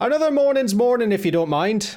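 high-pitched attempted Irish accent.

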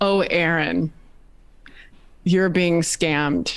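play-acted, sugary-sweet motherly voice. Telling of calling his mom during a scam, quoting her in the sweetest voice. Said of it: "it was like the sweetest voice".

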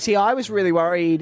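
ordinary talk, nothing marked

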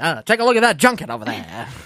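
put-on vintage, old-timey nineteen-forties way of talking. Echoing another speaker's old-fashioned phrasing: imitating a 1940s-style voice. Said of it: "You just sound like you're from the forties".

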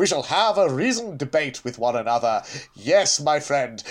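put-on posh, theatrical British English accent. Mocking how everyone in this Doctor Who era talks, in a posh BBC accent. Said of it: "everybody has to speak with a uh, posh bbc accent so all of the phials talk exactly like this".

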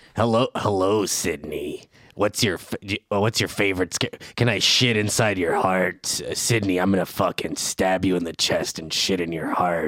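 deep horror villain voice. Asked for a Ghostface impression, taunting Sydney: Ghostface impression. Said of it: "give me your best ghost face impression".

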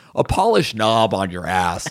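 ordinary talk

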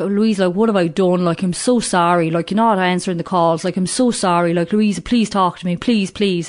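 put-on Irish accent. Retelling his pleading calls after weeks of silence: imitating an irish accent. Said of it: "He was always Irish".

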